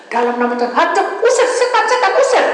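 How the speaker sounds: loud prayer climbing to a high shout; imitated exorcism prayer. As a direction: re-enact mother's frantic casting out of demons. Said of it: "nah, ini kesalahannya saya". (tiruan doa mengusir setan, berteriak melengking)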